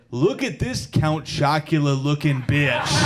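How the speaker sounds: slow, mocking troll read; mock-snide reading of an insult; reading mean comment. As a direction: sneer the insult out. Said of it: "the first comment I read said".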